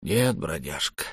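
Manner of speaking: very quiet. A narrator's reading. Khalitu refusing the dying boy, very quiet. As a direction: say no very softly. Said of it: "сказал Халиту очень тихо".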